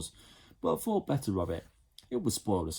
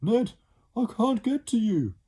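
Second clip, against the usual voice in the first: high, loud desperate scream; 7 dB louder than usual. Acted. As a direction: shout down from far above. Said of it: "the boy screamed".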